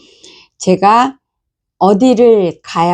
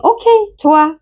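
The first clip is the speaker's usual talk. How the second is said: cheerful agreement; 10 semitones higher than usual. Retold or imitated.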